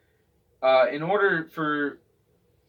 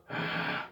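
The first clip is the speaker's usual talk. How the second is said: angry growling sigh; 6 dB quieter than usual. Shown as a demonstration. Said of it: "you're kinda getting mad with it".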